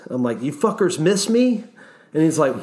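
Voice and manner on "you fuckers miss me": pissed. Retold or imitated. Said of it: "and I'm just pissed".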